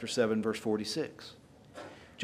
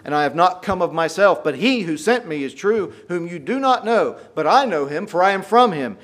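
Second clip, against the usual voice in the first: frustrated outcry; 4 semitones higher, 7 dB louder than usual. Retold or imitated. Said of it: "cries out in the temple".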